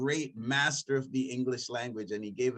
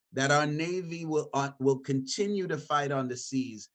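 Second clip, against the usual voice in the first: quoting Churchill. Retold or imitated. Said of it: "And I'm paraphrasing".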